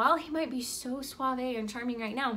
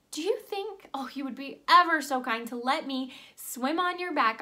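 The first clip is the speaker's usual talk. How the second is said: lightly voiced scorpion asking a favor; scorpion's polite plea. Scorpion asks frog for a ride, politely coaxing. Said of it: "he says".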